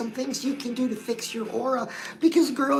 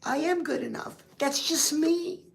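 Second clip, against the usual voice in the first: emotional affirmation; 3 semitones higher than usual. Shown as a demonstration. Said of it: "don't get emotional".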